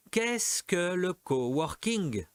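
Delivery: slow question with English word in French accent. Real, not acted. French teacher reading a question in French-accented English. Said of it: "l'accent, oh l'accent, l'accent français".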